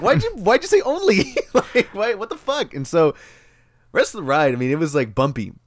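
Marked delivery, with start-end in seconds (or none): 0.0-2.7 high, laughing why'd you say only; incredulous laughing question, pitched up; laughing disbelief. Retold or imitated. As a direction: ask it while cracking up. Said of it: "I was like".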